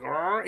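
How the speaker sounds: short mock gurgle; imitated gurgling growl. Retelling a movie scene to a friend, imitated gurgle. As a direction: gargle out a brief creature noise. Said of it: "the most horrifying gurgling sounds".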